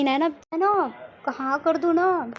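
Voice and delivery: drawn-out, slow wheedling please; slow coaxing plea. Acted. Sakshi slowly coaxing Naina to say yes.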